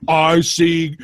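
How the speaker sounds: high, slow monster voice, laughing at the end. Pretend. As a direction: ham up a goofy monster. Monster eyes answer in story.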